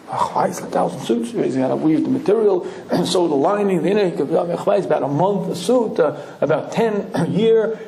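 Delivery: lightly voiced old tailor reckoning; a hint of old-world chant while counting; musing Shmuel. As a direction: yeshiva man working out a tailor's pace. Shmuel answering about suits.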